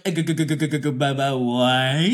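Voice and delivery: stuttered g and b sounds into a loud what; stammering panic. Pretend. Imagining herself caught out at breakfast, stammering. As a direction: trip over the letters in panic. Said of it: "I'd be like".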